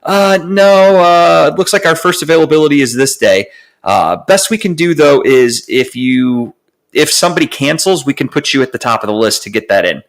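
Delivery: high, put-on customer service voice; mock support rep. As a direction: play the useless agent reading a script. Mimicking Spectrum rep again.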